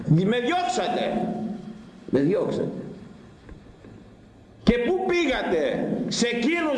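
high, hurt, pleading lament; a grieved father calling his children back; the Lord reproaching people who drove him away; sweet voice of the Lord. Acted. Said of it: "σας κάλεσα με γλυκιά φωνή".

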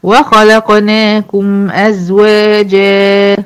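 slow recitation holding the final alif; teacher recites the verse to show the madd; Quran recitation. Shown as a demonstration. تلاوة بطيئة مع مد الألف. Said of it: "جا أهي".

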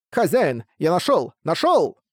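understated excited shout from a pet; excited cry. A narrator's reading. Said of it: "услышав неожиданный крик своего питомца".

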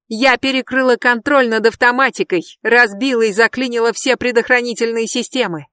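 high, loud defiant yell. Acted. Brandi yells down at Jeb, high shrieking yell. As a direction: scream it down the stairs. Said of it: "завопила она".

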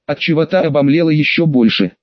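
plain reading voice

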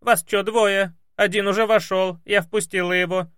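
high, loud rough maid voice; puzzled, loud housemaid; brash maid. Acted. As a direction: maid insists she let someone in. Maid argues over intercom.

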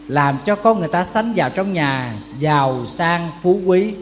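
ordinary delivery

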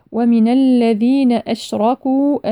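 slow chant with a long uu ending أشركوا; separated elongation. Shown as a demonstration. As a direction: stretch the final waw of أشركوا. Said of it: "مد منفصل أربع أو خمس حركات". (مد الواو في آخر أشركوا)

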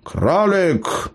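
high, showman's announcement of the rabbit. A narrator's reading. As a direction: proclaim it like a stage magician. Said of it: "Гном повысил голос".

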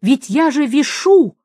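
high, sharp and exasperated; angry grumble. A narrator's reading. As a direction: snap back in anger while hanging on. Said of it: "злое приглушённое ворчание".

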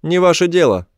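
high-pitched creature voice; high, curt brush-off from an alien; alien retort. A narrator's reading. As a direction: throw the refusal back in a high alien voice. Alien repeats the narrator's retort.

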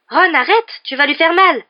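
loud, high cry of protest; alarmed exclamation. A narrator's reading. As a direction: cry out to stop him. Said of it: "s'exclama Hermione".

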